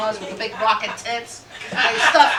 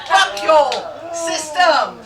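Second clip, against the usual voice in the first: louder, punchy mock yell; mock yell at white people; 5 semitones higher, 5 dB louder, much slower than usual. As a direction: bark it like a protester. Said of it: "I get to yell at white people".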